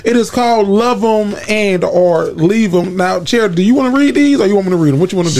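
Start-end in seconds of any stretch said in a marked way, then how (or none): 0.0-3.0 slow, announcer-style host intro. Acted. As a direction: introduce the segment like a radio host.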